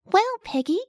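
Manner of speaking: high cheery bug voice; friendly little caterpillar. Acted. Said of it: "Squish said".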